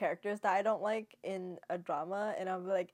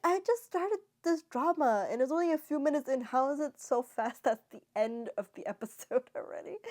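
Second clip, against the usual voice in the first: higher, puzzled retelling of her own reaction; playful disbelief; 6 semitones higher than usual. Retold or imitated. Viewer baffled when the credits roll early, higher and amused. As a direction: act baffled that the episode ended so fast.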